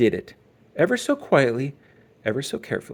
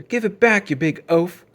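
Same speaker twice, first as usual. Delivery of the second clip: loud, higher, insulting; angry demand; 7 semitones higher, 7 dB louder than usual. Acted. Brother yelling at the bully, loud and angry. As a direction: order him to hand it back.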